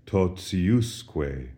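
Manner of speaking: Totiusque with the stress moved onto the US syllable; shifted accent. Shown as a demonstration. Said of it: "Notice the accent shifts from the T I syllable to the U S syllable".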